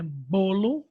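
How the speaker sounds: "bolo" leaning on the first syllable "bo"; "bolo" stressed at the start. Shown as a demonstration. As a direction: repeat "bolo" with weight on "bo". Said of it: "a sílaba mais forte é o bo".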